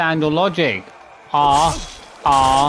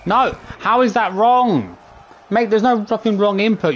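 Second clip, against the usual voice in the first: angry protest; 5 semitones higher than usual. Real, not acted. Input rejected again.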